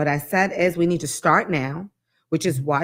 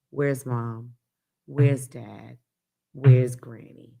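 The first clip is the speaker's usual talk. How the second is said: slow and pointed, each question spaced out; slow, deliberate; 6 semitones lower, much slower than usual. Shown as a demonstration. Mom to parents, slowly asking where the family is. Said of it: "I'm slowing down to say".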